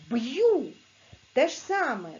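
normal talking voice

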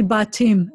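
"ba team" with "ba" left open before the t; "ba team" as open "ba" plus "team"; broken syllable. Shown as a demonstration. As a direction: keep the t of "ba team" on the second syllable. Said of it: "you have to break the syllable".

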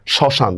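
শ্মশান with the first m silent. Shown as a demonstration. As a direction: say শ্মশান as "shoshan", no m after the sh. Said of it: "এখানে মফলার উচ্চারণ হচ্ছে না".

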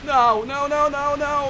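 high loud panicked nos; frantic no. Real, not acted. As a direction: yell no as the attack slips away. Quase vencendo, ataque falha. (grito desesperado de não)

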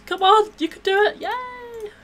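loud, rising cheer of encouragement. Real, not acted. Cheering her stuck Sim on, loud and excited. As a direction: urge her on like a fan at the finish line.

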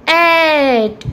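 "at" said as a long "ate"; word ending demo. Shown as a demonstration. Teacher showing what A T E will produce, drawn-out demo. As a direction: stretch "at" into a held "ate" sound. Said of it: "it will produce".

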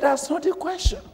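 high, loud correction; firm correction. Acted. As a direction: cut her worry short, ringing high. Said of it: "He said".

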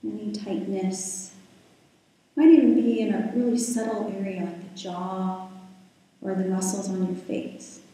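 calm, unhurried guiding voice with long pauses; guided meditation. Real, not acted. Yoga teacher settling the class into breath and body, guided meditation. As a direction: ease listeners into stillness, leaving space between phrases.

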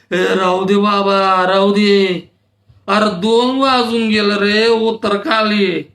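put-on old man fed up with the drunk; exasperated elder. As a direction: tell him off, fed up. Old man tells Rau enough.

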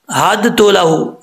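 हद तो with the दाल pronounced, the mistake; wrong reading. Retold or imitated. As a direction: imitate the wrong हद तो. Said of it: "ऐसा नहीं करना". (गलत उच्चारण)

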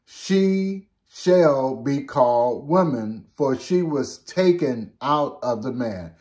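slow, measured Bible reading; solemn slow reading of scripture. Acted. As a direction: read the verse slowly and solemnly. Reads scripture verse aloud.

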